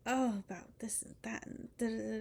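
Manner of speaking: imitating gossiping churchgoers in a whisper; mock whispering. Mocking the people behind her in a whisper. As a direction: hiss it like pew gossip. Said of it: "their whispers are not that subtle".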